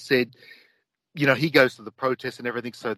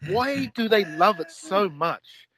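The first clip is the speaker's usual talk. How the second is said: slow, raised, mock disbelief; incredulous foreigner; 4 semitones higher, slower than usual. Overseas onlookers asking Australians why, slow mock disbelief. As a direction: drag it out like a baffled outsider. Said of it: "They're like".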